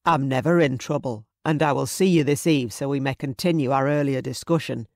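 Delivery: confident, lightly voiced male character; lightly voiced suitor. Suitor answering her as he leaves, lightly voiced confidence. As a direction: play the assured suitor, lightly. Hero answers his sweetheart.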